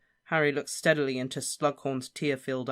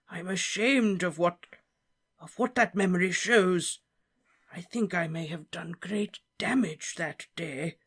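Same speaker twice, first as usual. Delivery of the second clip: higher, hushed confession ending in a whisper; ashamed whisper; 5 semitones higher than usual. Acted. Slughorn confessing his shame to Harry. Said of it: "he whispered through his fingers".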